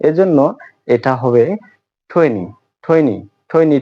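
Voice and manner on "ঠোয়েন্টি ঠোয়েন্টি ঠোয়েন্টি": "টোয়েন্টি" with a puff after the first t; careful repeated "টোয়েন্টি", aspirated. Shown as a demonstration. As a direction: model "টোয়েন্টি" as "ঠোয়েনি", breathy release on t. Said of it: "টি এর উচ্চারণ ঠি শিখেছি".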